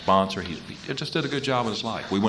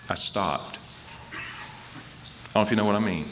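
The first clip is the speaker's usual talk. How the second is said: hushed realization; 7 dB quieter, slower than usual. Real, not acted. Telling the audience his turning point, hushed. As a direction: let it drop to a hush.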